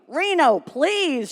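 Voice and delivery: high pleading voice; begging. Acted. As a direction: beg Reno to stop. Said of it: "she begged".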